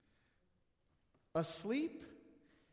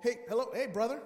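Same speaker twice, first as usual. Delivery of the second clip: loud phone talk; 3 dB louder than usual. Retold or imitated. Pastor on phone while driving.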